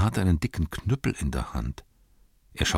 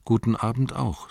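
higher, polite hobbit reply; 5 semitones higher than usual. Acted. Hobbits returning the gatekeeper's greeting, higher polite voice. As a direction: answer back politely. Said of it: "sagten sie".

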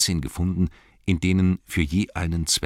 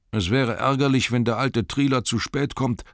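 annoyed elf; 7 semitones higher than usual. Acted. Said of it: "sagte ein anderer".

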